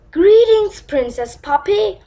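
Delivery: loud grand greeting; pompous greeting. Acted. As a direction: hail her grandly.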